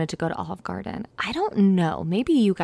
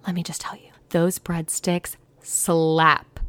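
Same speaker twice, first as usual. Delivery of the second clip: whisper; slower than usual. Real, not acted. Confiding about Olive Garden breadsticks.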